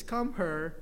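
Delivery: put-on "her" in place of here, Filipino accent; Filipino dialect. Cat's owner correcting the visitors, Filipino dialect. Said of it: "You're saying it wrong. It's not".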